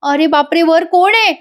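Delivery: high, tearful mock wail; imitated crying. Wife crying to mother-in-law over torn toy cat, mock wailing. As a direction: act out a tearful complaint. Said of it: "रडायला लागते आणि म्हणते".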